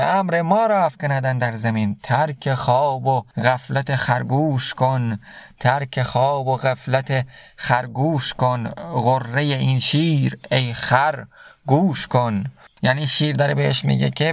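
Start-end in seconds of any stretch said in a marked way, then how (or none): 2.0-12.4 slow, measured reading of Rumi's verse; slow verse recitation. Acted. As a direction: recite the couplet slowly, letting each word land. Recites Masnavi verse slowly. (شعرخوانی آرام و شمرده)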